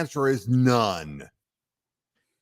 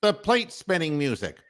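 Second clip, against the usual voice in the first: Ed Sullivan impression; 8 semitones higher than usual. Host introducing the plate spinner, in a hammed-up emcee voice. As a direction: announce the act like a grand variety-show host. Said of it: "for Ed Sullivan to get excited".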